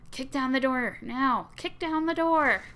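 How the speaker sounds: shouted command building to a yell; urging shout. Acted. Urging Bowser to kick door.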